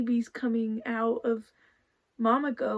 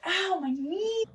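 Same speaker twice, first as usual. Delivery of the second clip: tripping and falling; 7 semitones higher, slower than usual. Real, not acted. Knee hurts.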